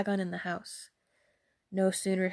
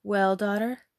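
louder, expectant question; eager cry; 5 dB louder than usual. Acted. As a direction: call out, keen to hear the news. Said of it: "she cried out".

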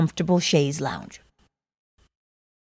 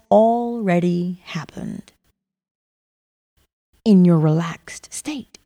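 guided meditation. Acted. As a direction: ease the listener into calm.

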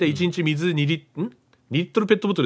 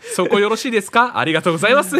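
lifted, laughing polite ask; higher polite request; 4 semitones higher, 3 dB louder, faster than usual. Retold or imitated. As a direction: raise the pitch, polite. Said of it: "ピッチを上げても". (声を上げて丁寧に頼む)

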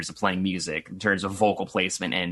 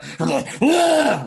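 zombie sound; 14 semitones higher, 6 dB louder than usual. Retold or imitated. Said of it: "like a zombie sound".

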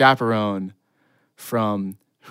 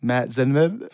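timid answer rising like a question; small, hesitant questioning reply; meek; slower than usual. Acted. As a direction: give your name meekly, unsure. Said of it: "as meekly as possible".

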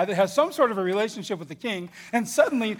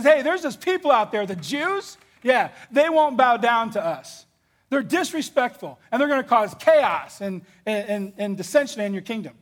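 scheming Haman; 3 semitones higher than usual. Acted. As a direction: sell the king on a grudge. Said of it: "He goes to the king and he says".

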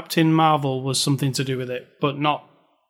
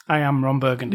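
Ron Burgundy; 3 semitones lower than usual. Retold or imitated. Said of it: "like I just did".

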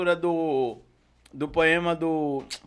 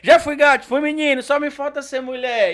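comic lament. Acted. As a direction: wail like a folksy buffoon. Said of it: "o cara tropeçava na peça e começava".

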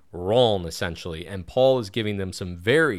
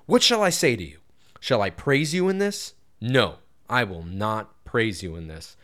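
rebuking scripture reading; 2 semitones higher than usual. Acted. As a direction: read it as a pointed rebuke. Reads Paul's rebuke aloud.

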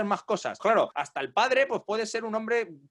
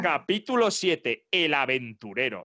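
chapter announcement; 5 semitones lower, slower than usual. Acted. Announces chapter title for effect.

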